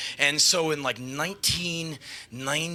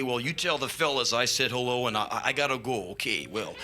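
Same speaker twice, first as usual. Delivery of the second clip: a hint of a low, humble rocker; lightly voiced gracious rocker; polite rocker; 3 semitones lower than usual. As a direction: lower voiced, easy and courteous. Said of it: "And I see him after the show".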